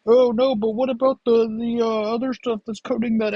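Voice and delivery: high, fretful counter-voice; worried inner voice. Acted. Fussy inner voice objecting to the pour, high and fretful. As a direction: squeak up in alarm as the fussy side of himself. Arguing with himself, other voice.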